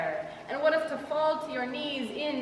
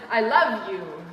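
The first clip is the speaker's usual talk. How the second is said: tender reply; 3 semitones lower, 5 dB louder than usual. Retold or imitated. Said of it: "Jesus says".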